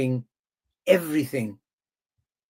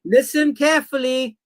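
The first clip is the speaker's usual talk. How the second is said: calm turning angry; 9 semitones higher, 3 dB louder than usual. Real, not acted. Heated argument, demanding attention.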